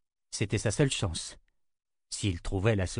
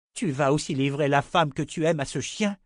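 a touch of roaring fury, raised; roaring anger; 5 semitones higher than usual. Acted. Wife roaring at husband over the woman he loves. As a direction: throw it at him bitterly. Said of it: "rugit Callan".

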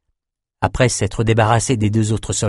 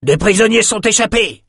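high-pitched raised alarm; alarm cry; 11 semitones higher, 3 dB louder than usual. A narrator's reading. Soldiers alert the camp to escapees, crying out. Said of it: "Des cris retentirent dans le camp".

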